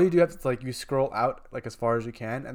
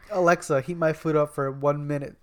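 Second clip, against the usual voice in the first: loud command; 2 semitones higher, 5 dB louder than usual. Pretend. Commanding the smart speaker.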